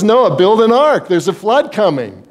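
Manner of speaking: playful comic God calling down to Noah; Bill Cosby routine. Retold or imitated. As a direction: deliver it like a stand-up bit. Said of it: "Bill Cosby's routine".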